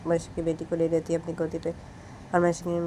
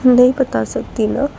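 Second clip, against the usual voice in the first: tearful outburst; 5 semitones higher, 8 dB louder, slower than usual. Acted. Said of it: "Manisha फिर से रोने लगती है".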